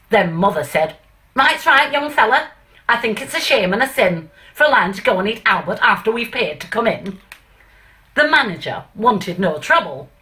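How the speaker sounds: light, self-admittedly bad northern English accent reciting; a mild northern accent, Stanley Holloway monologue style; self-mocking northern accent. Reciting the Lion and Albert to the audience in a light northern accent. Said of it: "I'm gonna do my worst northern accent ever".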